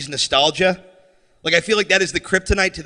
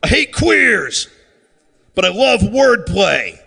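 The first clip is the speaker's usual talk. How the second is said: slow, fuming redneck grumble building to a higher yell; angry redneck; 6 semitones higher, slower than usual. Retold or imitated. Comic plays a fuming redneck in a trailer, slow grumbling rant. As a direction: seethe like a hick who loves puns. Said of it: "some angry redneck sitting in a trailer".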